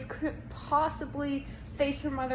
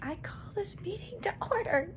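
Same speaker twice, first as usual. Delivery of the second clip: a hint of a pompous gavel voice, higher; mock Christopher; 9 semitones higher, 4 dB quieter than usual. Reader quoting Christopher calling the meeting, lightly mock-formal. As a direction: lightly ham up a chairman. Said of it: "and he's just like".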